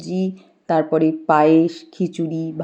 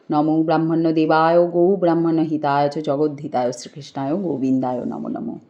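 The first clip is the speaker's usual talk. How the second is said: steady devotional recital of a Sanskrit prayer; mantra recitation. Acted. Priest-like host reciting the Krishna salutation in worship. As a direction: intone the verses evenly, like worship.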